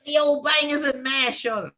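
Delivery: high-pitched mock British voice; British accent. Comedian imagines a British person paying, mock British accent. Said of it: "do a little British accent there".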